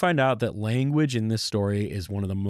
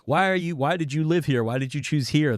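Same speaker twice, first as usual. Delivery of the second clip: higher, calling across from the ships; mock shout of questions toward the shore; retold yelling; 6 semitones higher than usual. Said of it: "they were yelling".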